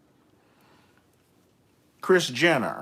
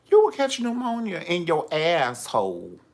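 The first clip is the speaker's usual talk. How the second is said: emphatic louder warning; 7 semitones higher, 6 dB louder than usual. Retold or imitated.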